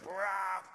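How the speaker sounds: short imitated dog snarl; dog attack roar. Rottweiler coming at the man who kicked him, snarling. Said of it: "and he goes".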